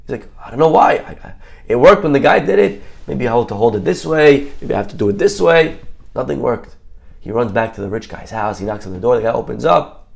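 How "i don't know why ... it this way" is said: mildly flustered, stumbling at the start. Retold or imitated. Husband to wife when the bell fails, flustered. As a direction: fumble for an explanation, a touch upset. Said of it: "all flustered, all upset".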